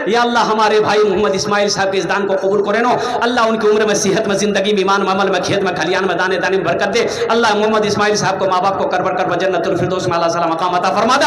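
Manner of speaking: earnest dua recited over the crowd; a preacher's supplication for the donor; prayer. Acted. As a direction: bless the donor in a steady prayer voice.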